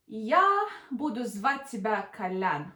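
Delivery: "Я буду звать тебя Колян" kept level; flat intonation. Shown as a demonstration. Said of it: "Special intonation for questions".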